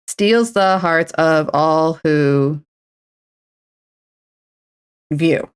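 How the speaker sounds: very slow drawn-out words; slow syllable count. Shown as a demonstration. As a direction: tap out each syllable. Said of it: "wait, did I just say".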